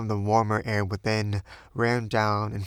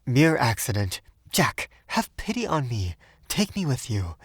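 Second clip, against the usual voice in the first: anxious pleading; 4 semitones higher than usual. A narrator's reading. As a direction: beg him urgently. Anxious lovers arguing.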